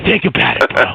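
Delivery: lightly imitated salesman, opening high; high opener, then easing into a mock sales close; salesman pitch. Coworker persuading his workmate, mock salesman pitch. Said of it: "He's like a salesman".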